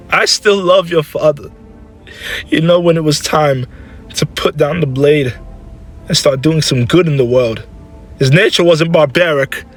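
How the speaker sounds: high, upset motherly insistence; impassioned defence. Acted. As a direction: defend the husband you loved, emotionally. Mother defends her dead husband.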